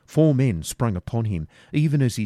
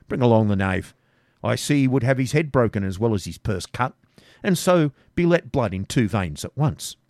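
louder, mocking order; bossy robber; 3 semitones higher, 4 dB louder than usual. Robber commands gang about Garth, louder and mocking. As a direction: order them with a sneer.

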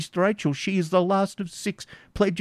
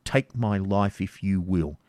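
louder, impassioned father defying torture; desperate defiance; 4 semitones higher, 3 dB louder than usual. Acted. Isaac defying the baron's torture, desperate and loud. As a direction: defy him with everything. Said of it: "rendered desperate by paternal affection".

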